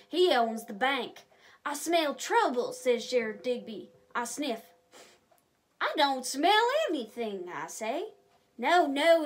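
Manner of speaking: lively, expressive storybook narration; reading to children. Acted. A reader telling kids the story of Deputy Dan, lively. Reads story aloud to viewers.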